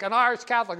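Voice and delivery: IRISH hit hard in scandalised disgust; mock horrified conservative. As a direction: spit out Irish like a scandalised bigot. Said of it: "you should have heard the conservative".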